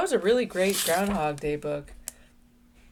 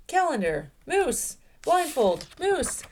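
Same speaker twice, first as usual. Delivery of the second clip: loud, high bellow of frustration; 10 semitones higher, 3 dB louder, slower than usual. A narrator's reading. Moose bellowing over his bickering friends, loud and high. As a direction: bellow each word like a fed-up moose. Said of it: "bellowed Moose".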